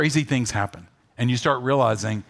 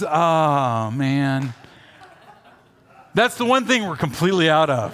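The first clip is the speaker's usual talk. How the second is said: cashier's bad news. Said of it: "the guy at the register goes".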